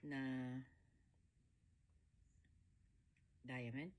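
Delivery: slow, groggy morning voice; just woke up. Real, not acted. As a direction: talk like you just rolled out of bed. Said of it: "Sorry, kagigising ko lang".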